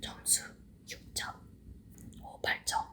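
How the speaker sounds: soft unvoiced ASMR whisper. Real, not acted. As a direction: whisper close to the mic. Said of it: "에이에스엠알로 하나하나 소리랑 자막으로만".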